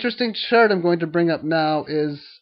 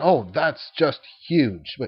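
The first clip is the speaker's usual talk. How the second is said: plainly insincere, sarcastic tone; 3 semitones lower than usual. Silver market commentary on a three percent drop, sarcastic 'that's just huge'. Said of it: "I'm sarcastic when I'm saying three percent down in a day is huge".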